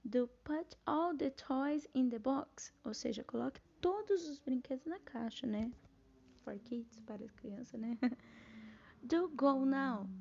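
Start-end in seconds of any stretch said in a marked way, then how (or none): 0.0-2.7 slow, deliberate "Do put all the toys in the box"; measured, insistent demo order; emphatic imperative. Shown as a demonstration. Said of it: "pra dar mais ênfase". 9.0-10.1 very slow, weighty "Do go now"; drawn-out, insistent command demo; emphatic imperative. Shown as a demonstration. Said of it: "pra dar mais ênfase".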